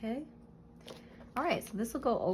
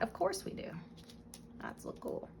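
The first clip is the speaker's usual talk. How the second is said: talking while holding breath; words squeezed out on held breath; 12 semitones higher, 8 dB quieter than usual. Real, not acted. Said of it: "Yes, I'm holding my breath".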